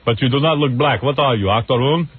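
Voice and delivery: lightly put-on Austrian accent as the movie hero; a loose Austrian accent, hamming up the action star; Arnold accent. Radio host mocks the Eraser scene in an Austrian accent. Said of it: "What accent are you doing?".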